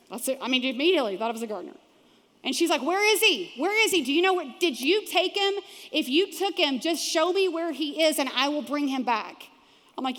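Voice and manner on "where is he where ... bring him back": higher, urgent, rapid questions; desperately begging for answers; frantic pleading. Retold or imitated. Mary begging the gardener for Jesus's body, frantic.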